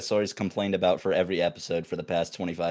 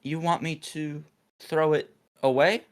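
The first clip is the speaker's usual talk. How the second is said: dopey coworker; 7 semitones higher than usual. Retold or imitated. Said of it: "He's like".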